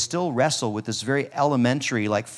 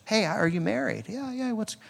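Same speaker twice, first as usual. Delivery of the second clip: soft, higher-pitched casual question; gentle; 9 semitones higher, 5 dB quieter than usual. Acted. Preacher sensitively asking someone about their marriage, gentle. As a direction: ask it gently and lightly. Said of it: "just gentle".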